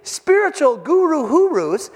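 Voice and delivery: incredulous healed man. Retold or imitated. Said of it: "I can just see him going".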